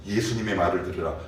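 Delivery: usual speaking voice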